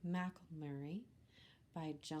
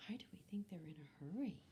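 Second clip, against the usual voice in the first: fast whispered aside; 6 dB quieter, much faster than usual. Real, not acted.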